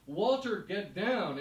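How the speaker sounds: a retold mom's worried shout; calling out. Mom calling up to Walt.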